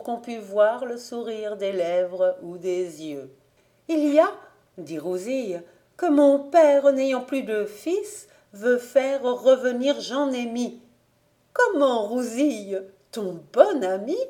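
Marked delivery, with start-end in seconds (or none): 3.9-10.8 put-on higher, eager girl's voice. Rousille stopping her aunt from undressing, higher and eager. Girl tells her news. 11.5-14.2 put-on higher, astonished old aunt; a hint of a startled aunt; surprised aunt. The aunt asking if it's Rousille's sweetheart, higher and surprised.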